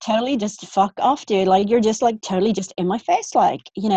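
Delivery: mock American Valley Girl accent. Friend trying out an American alter ego, in Valley Girl accent. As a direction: put on a Californian Valley Girl lilt. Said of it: "do the accent too".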